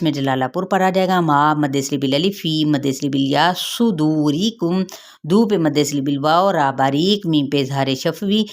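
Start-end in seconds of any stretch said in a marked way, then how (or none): 3.6-4.8 drawn-out tajweed reading; slow Quran recitation. Shown as a demonstration. Teacher reciting slowly for her students. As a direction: recite it slowly, every sound held. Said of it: "teacher recites Quran word".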